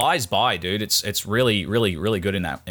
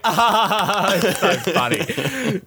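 much higher, laughing mock fan; mocking audience member; 11 semitones higher, 3 dB louder, much slower than usual. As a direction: sneer at the giggling crowd with a high laugh. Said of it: "every fucking cunt around me would be like".

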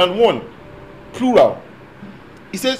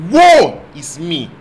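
Isaiah's lament; 8 dB louder, slower than usual. Acted. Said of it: "He said what?".

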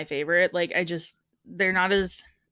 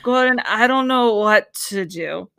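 slow, drawn-out helpless plea to Gordon; wife pleading with Gordon, a hammed-up drunk whine; drunk Long Island wife; 2 semitones higher, 5 dB louder, slower than usual. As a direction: slur it like she's had a few. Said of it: "That's exactly what it is".

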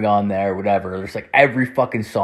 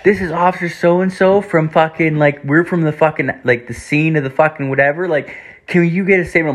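higher-pitched imitation of an officer calling; mock police caller, pitched up; cop on the phone; 7 semitones higher than usual. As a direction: put on a high phone-call cop voice. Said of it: "the cops call".

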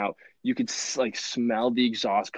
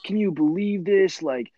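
raised, high mock rant at a line-jumper; loud outburst; 7 semitones higher, 6 dB louder, slower than usual. Dad loudly complains about the guy in line, loud mock rant. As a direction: bellow it in disbelief, slowing at the end. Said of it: "apparently very loudly just went".

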